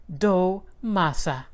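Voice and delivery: Abuela slowly repeating. A narrator's reading. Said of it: "and rolls it flat".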